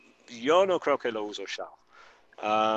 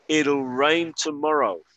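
slow clear model; 3 semitones higher, 4 dB louder, slower than usual. Shown as a demonstration. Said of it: "escuchar la pronunciación".

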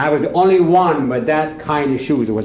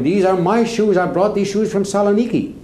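higher-pitched protest, mildly yelled; half-yelled retold claim, pitched up; retold yelling; 7 semitones higher than usual. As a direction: insist like a wronged man, imitating his yell. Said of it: "he's yelling".

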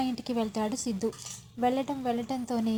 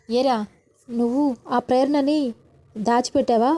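angry question; 8 dB louder than usual. A narrator's reading. Mother confronts her son.

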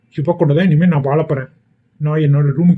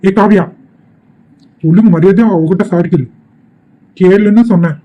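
stern order; 4 semitones higher than usual. Acted. Father orders Kaviya to apologise.

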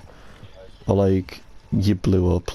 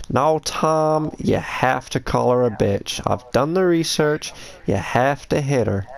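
lightly voiced pimp; 4 semitones higher, slower than usual. Continuing pimp roleplay.

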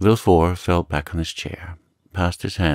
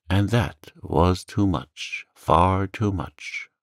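very slow, weighted musing; understated, troubled slow murmur; grave murmur; slower than usual. Acted. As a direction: draw it out, half to yourself. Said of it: "murmured Villefort".

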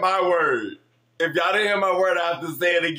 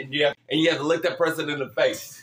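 laughing; 3 semitones lower, faster than usual. Real, not acted. Giggling through game instructions.

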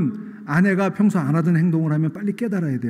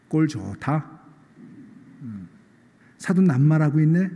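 wry, teasing jab at a hypocrite; mocking angel. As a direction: scoff at him like a smirking angel. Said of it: "이렇게 점잖게 얘기하지 않고".

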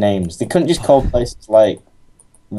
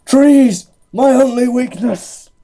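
much higher, loud melodramatic wail; hammed-up dramatic cry; 3 dB louder, slower than usual. Player mock-lamenting trees as his only weakness, hammed-up. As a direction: ham it up like a doomed cartoon hero.

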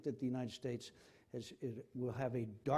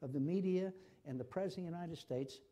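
close to tears; 2 semitones higher than usual. Real, not acted. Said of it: "it almost makes me cry".

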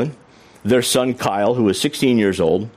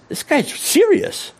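high, drawn-out disbelief; dawning realization; slower than usual. Retold or imitated. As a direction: stretch it out with pitch shooting up. Stunned realization in the story.

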